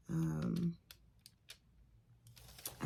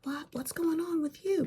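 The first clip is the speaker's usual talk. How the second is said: higher, louder, eager curiosity; perked-up surprise; 13 semitones higher, 3 dB louder than usual. Retold or imitated. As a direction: pounce on the gossip. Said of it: "They like".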